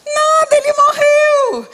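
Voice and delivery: grito agudo e choroso, devagar; grito emocionado. Real, not acted. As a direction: clame com a voz embargada e alta. Clímax da pregação, grito. (grito choroso do pregador)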